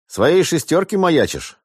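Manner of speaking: slow, cold mocking question. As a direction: ask it coldly, unhurried. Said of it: "холодно осведомился Франт".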